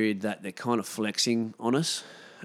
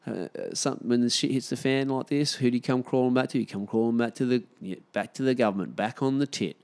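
mock gloating government; 4 semitones higher than usual. Mocking the government's taunt.

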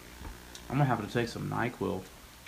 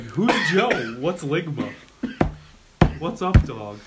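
mock naive friend; 3 semitones higher, 7 dB louder, slower than usual. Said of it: "you thought I was gonna be like".

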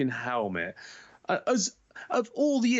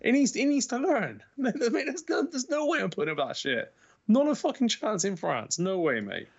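worked-up rant; 12 semitones higher than usual. Retold or imitated. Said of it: "Straight away, I'm".

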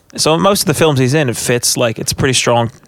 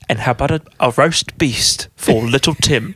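Michael Caine. Acted. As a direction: overact the Christmas line in Cockney. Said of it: "watch how much he's overacting".

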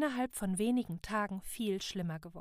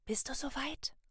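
whispering; 6 semitones higher than usual. A narrator's reading. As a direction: whisper it secretly. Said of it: "flüsterte Salaya".

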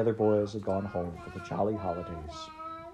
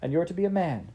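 put-on high, eager little girl; a small sister bursting with news, voiced high; 8 semitones higher, faster than usual. Little sister fetching her brother home, high and eager. Child Fan speaking.

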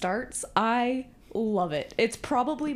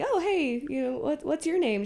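awkward greeting; 6 semitones higher than usual. Retold or imitated. Boy awkwardly greets a girl, retold.

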